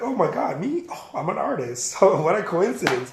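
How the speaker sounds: mock astonishment at being asked; put-on "who, me?" surprise; feigned surprise. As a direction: pretend it is all a happy accident. Acting out his feigned surprise.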